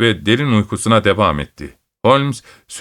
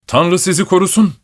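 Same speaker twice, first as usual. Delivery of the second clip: excited cry; 7 semitones higher than usual. A narrator's reading. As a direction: cry it out in relief. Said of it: "diye bağırdı adam heyecanla".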